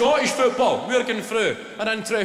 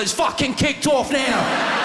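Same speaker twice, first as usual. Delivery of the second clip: higher, louder, slow mock-panicked cry; mock alarmed shout; 7 semitones higher, 7 dB louder, slower than usual. Danny Dyer reacting to a passing fan, mock panicked shout. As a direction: shout it like it's all kicking off. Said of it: "He's gone".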